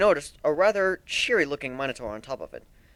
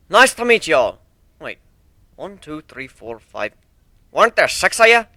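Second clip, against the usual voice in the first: put-on folksy old stallion; 9 dB louder than usual. A hint of a folksy stallion greeting the ponies and counting them.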